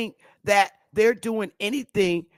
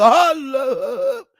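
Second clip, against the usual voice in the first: laughing; 5 semitones higher, 6 dB louder than usual. Real, not acted. Laughing at her own joke.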